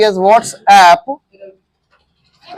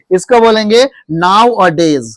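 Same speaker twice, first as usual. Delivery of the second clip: 1 slow teaching; slower than usual. Shown as a demonstration. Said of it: "आप today और tomorrow नहीं बोलेंगे".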